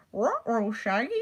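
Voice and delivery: a light Scooby-Doo impression. Shown as a demonstration. Reading a Scooby-Doo book aloud, a lightly voiced Scooby. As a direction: growl it out like a cartoon dog. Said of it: "a little bit of character in it".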